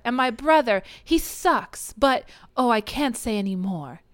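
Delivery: hammed-up tearful complaint, lifting high; mock sobbing. Younger sister complaining about her brother, mock sobbing. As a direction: overdramatic retold sob, easing off.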